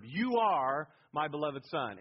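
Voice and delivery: slow, with "You are" hit loud; emphatic YOU. Shown as a demonstration. Preacher showing the main verb, emphatic stress on "You are". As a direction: lean hard on "You are", then ease off. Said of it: "And it's emphatic".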